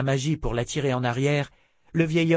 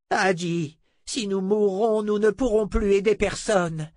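put-on firm old sorcerer voice; 8 semitones higher than usual. Zed reasons.

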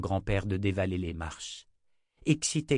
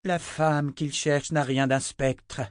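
slow, high, louder delivery; pointed retort; 6 semitones higher, 5 dB louder, slower than usual. A narrator's reading. Reply about the woman he seeks, pointed. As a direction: stretch the line out emphatically.

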